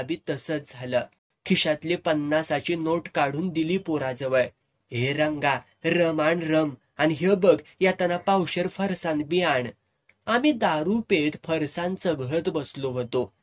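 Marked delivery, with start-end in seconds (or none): 4.9-9.7 calling out. Retold or imitated. Calling boy to fetch rum.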